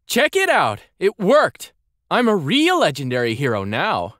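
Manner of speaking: put-on high, excited boy voice; excited young boy. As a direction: pitch way up, bursting with excitement. Andel showing off.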